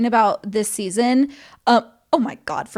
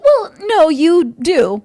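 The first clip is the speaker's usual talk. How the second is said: mock blunt Kim; 5 semitones higher, 6 dB louder, slower than usual. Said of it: "she's like".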